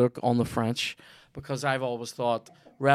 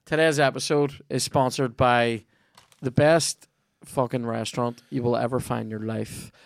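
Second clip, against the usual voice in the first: punchy podcast ad read, a bit louder; 4 dB louder than usual. Acted. Host to listeners, pushing the sponsor in a loud ad read. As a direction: sell the restaurant hard and cheerfully.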